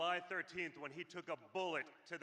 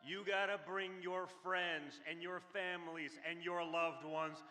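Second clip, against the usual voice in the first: urging voters, punching the last word; rally speech. Acted. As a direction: push them to the polls.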